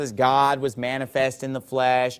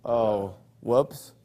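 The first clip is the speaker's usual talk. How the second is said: mock deflation; 5 semitones lower, 3 dB quieter than usual. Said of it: "And then you're like".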